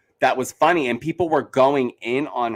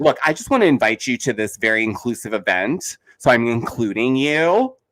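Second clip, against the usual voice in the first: mock-gracious condescension; condescending. Podcaster retells a grudging event invitation, lightly condescending. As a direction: imitate someone talking down to a guest. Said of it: "it was condescending".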